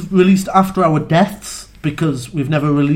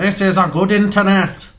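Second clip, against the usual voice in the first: nerd voice. Pretend. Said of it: "I was trying to pretend to be a nerd".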